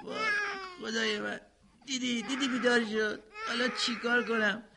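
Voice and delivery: distressed cries with a rising voice; panicking, close to tears; boy's alarmed near-crying panic; panicked. Acted. Baby wakes, boy panics.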